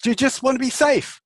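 high, urgent question; match their intensity; intense empathy. Shown as a demonstration. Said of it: "Really, really intensity".

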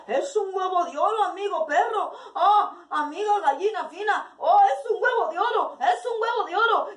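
más agudo, riendo de alegría; ríe incrédulo al ver el oro; emoción con risa. Acted. Granjero ríe emocionado por el oro. (risa emocionada y aguda)

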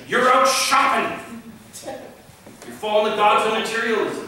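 accusing preacher's scolding; mock pulpit scolding; charismatic preacher. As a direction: wag a finger at the pews. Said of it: "most pastors don't say it like that".

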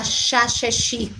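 "ya, ye, yi" said as "sha, she, shi"; Buenos Aires "sh". Shown as a demonstration. Streamer shows viewers the porteño accent, "ya, ye, yi" as "sha, she, shi". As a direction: stress the "sh" sound in each of "ya, ye, yi". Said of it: "que es marcando la".

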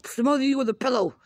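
high, shouted mock scolding; mock angry yell. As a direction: yell it at a noisy kid. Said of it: "I'm like".

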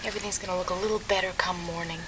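put-on soft, fast whisper to calm a child; soothing whisper. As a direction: hush the boy gently. Comforting a frightened child.

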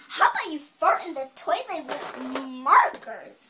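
funny princess. Acted. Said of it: "you're really, really funny".

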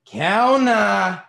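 loud, high call across the room; shouting for waiter. A narrator's reading. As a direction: holler for the waiter. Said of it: "he shouted".

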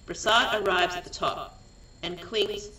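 deliberate, projected scene reading; script narration. A narrator's reading. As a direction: read out stage directions in short phrases with pauses.

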